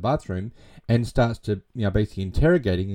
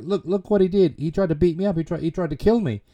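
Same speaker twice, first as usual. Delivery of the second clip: faked panic; 8 semitones higher than usual. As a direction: play the frightened victim, falsely. Peter fakes being the victim.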